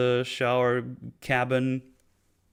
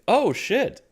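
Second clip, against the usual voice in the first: surprised; 5 semitones higher than usual. Retold or imitated. Retold surprised reaction.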